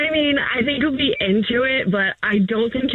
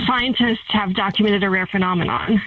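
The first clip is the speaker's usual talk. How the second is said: lightly voiced wildlife narrator, measured pace; David Attenborough. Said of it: "why are you talking like that?".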